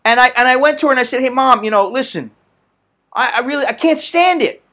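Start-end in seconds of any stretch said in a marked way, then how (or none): 1.2-4.6 mild mock whine to mom, ending in a yelp; half-hearted complaining to his mother; whining. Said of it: "I was whining".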